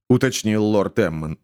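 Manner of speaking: ordinary delivery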